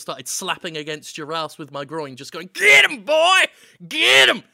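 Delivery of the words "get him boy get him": loud, high farmer's holler; hammed-up farmer shout. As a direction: holler like a farmer urging on an animal. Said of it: "walked in dressed as a farmer".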